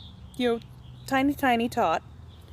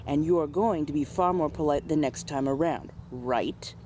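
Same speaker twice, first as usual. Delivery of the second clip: stern scolding. Retold or imitated. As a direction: lay down the law, steady and cold. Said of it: "get in right behind your ear and go".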